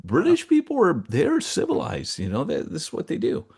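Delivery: mock-refined, high and lilting; mock posh. Talking about British table manners, high and mock-refined. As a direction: play it up like a prim Brit.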